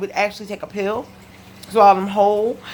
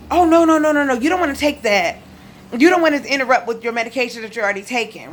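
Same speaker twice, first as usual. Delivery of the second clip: doctor's objection; 3 semitones higher, faster than usual. Retold or imitated. Patient retells doctors refusing vitamins, mock objection. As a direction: imitate an alarmed doctor waving it off.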